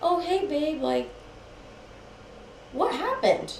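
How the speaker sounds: high, innocent imitation; oblivious waking boyfriend. Boyfriend waking in girlfriend's arms, innocently puzzled. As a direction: greet lightly, as if nothing happened.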